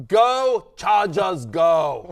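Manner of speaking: loud, drawn-out rallying shout; Arnold Schwarzenegger. Acted. Co-host blurts out a famous movie-star clip, booming impression. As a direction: bellow it slowly in an action-star impression. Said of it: "The clip of Arnold Schwarzenegger".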